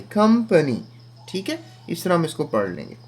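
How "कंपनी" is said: कंपनी high as "kum-pa-nee", falling; pronunciation demo. Shown as a demonstration. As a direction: model कंपनी clearly in two beats. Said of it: "इस तरह पढ़ें". (कंपनी का उच्चारण, ऊँचे सुर में)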